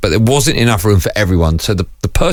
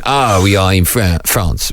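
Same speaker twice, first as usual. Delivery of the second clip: lightly put-on French accent; 3 semitones lower, slower than usual. Joker at a sombre meal pretending to be in France, French accent. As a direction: play at being French, drawn out and low. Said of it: "I was in France".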